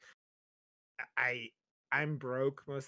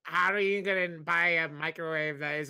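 mocking character voice; 4 dB louder than usual. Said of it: "Stop being racist to robots".

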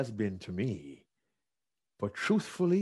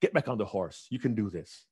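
reassuring; 5 semitones lower, 3 dB quieter than usual. Retold or imitated. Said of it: "Morgan McCarthy, said".

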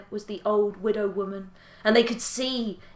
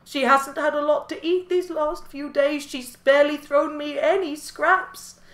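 higher, hooting owl voice; 6 semitones higher than usual. Acted. Owl tells the animals the widow is ill, owl voice. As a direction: speak as a worried owl. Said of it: "And the owl said".

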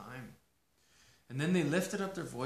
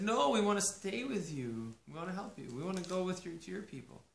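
daughters pleading; 6 semitones higher than usual. Acted.

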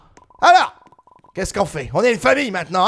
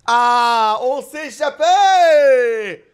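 excited; 4 dB louder, much slower than usual. Acted. Escape, triumphant cry.

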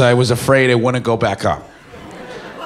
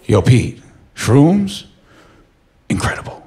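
lower, then fading hushed; lazy satisfied Ryan; 5 semitones lower than usual. Retold or imitated. A friend after the trip to Pete, low then hushed. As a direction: sigh it out, impressed. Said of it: "and he went".

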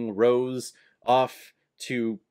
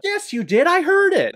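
mock shrill Ida; 7 dB louder than usual. Acting out Ida's retort.

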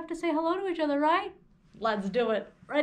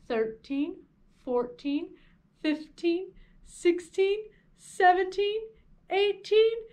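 rising count; much slower than usual. Shown as a demonstration. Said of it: "get taller and taller as we count".

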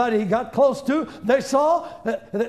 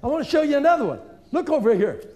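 high, eager jeering; taunting the devil; 6 semitones higher, faster than usual. Pretend. Preacher taunting the devil with scripture. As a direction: call him over to gloat.

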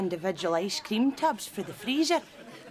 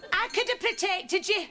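high, creepy come-on voice; a shopkeeper leering at his customer in a high voice; creepy flirting; 11 semitones higher than usual. Acted. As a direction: lay on the sleazy charm, pitched high.

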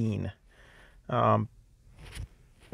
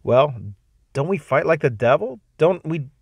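high, insistent questioning; mildly raised, indignant demand; loud demand; 5 semitones higher, 5 dB louder than usual. Acted. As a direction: demand it, pitched up and pushing. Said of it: "demanded the youth loudly".

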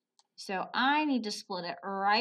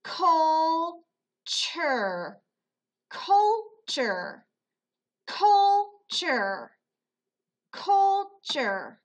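tapped syllables; 6 semitones higher, 6 dB louder, much slower than usual. Shown as a demonstration. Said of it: "Let's tap it".

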